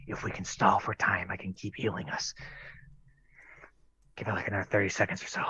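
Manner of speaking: hushed, soft aside to allies; secretive undertone, murmured to the group; conspiratorial whisper. Acted. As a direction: keep it low so the enemy won't overhear. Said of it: "I'm just gonna whisper to them".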